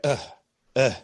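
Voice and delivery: short imitated "ugh"; mock grunt. She goes to bed with him, imitated grunting. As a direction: act out her wordless grunts.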